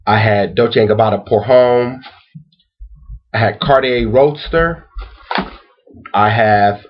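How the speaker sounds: slow, measured list with long pauses; deliberate roll call, one name at a time; slow repeat. Real, not acted. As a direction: read each item out slowly, pitch lifting. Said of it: "let me repeat it slowly".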